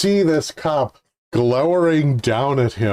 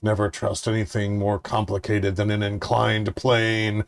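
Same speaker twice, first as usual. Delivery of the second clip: spoken through gritted teeth. Retold or imitated. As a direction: clench your jaw and force it out. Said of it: "with gritted teeth".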